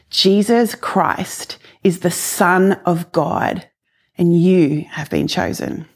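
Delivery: slow, lightly voiced divine pronouncement; retold heavenly voice. An audible voice tells her she is chosen, retold solemnly. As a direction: deliver it slowly, as a solemn message from heaven. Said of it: "the audible voice said to me".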